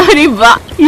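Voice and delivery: thrilled at the big fish; happy delight. Acted. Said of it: "निधि बड़ी खुश हो जाती है". (खुशी से चहकना)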